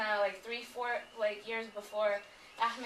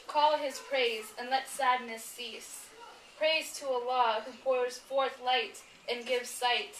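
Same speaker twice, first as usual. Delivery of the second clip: devotional recitation. Acted. Reading Ahmed's Friday khutbah praise poem, solemn proclamation. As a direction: proclaim each line like a khutbah.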